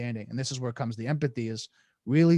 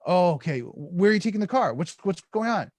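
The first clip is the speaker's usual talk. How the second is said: agitated questioning; 4 semitones higher, 4 dB louder than usual. Acted. Acted reply from agitated person.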